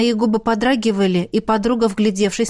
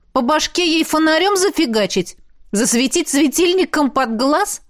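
mocking joke; 7 semitones higher than usual. A narrator's reading. Joking suggestion.

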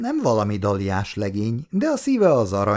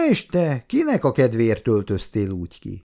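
sharp retort. Acted. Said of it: "készen volt a csípős válasz".

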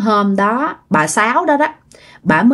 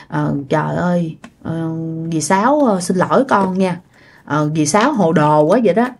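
very apologetic; 2 semitones lower than usual. Retold or imitated. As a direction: play a contrite neighbour with halting ums. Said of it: "giống như biết lỗi lắm".

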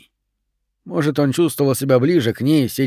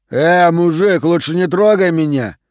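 louder, higher defiant warning; angry threat; 5 semitones higher, 5 dB louder than usual. A narrator's reading. Benson to the teacher approaching: loud threat. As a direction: warn him off loudly.

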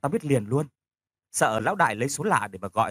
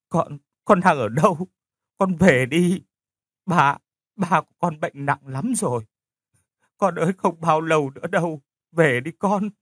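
higher, grieving plea to come home; pleading mother; 4 semitones higher than usual. Acted. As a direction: beg her to come home before it's too late. Mother begging daughter to return. (người mẹ van nài, đau buồn)

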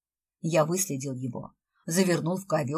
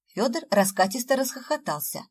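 ordinary delivery

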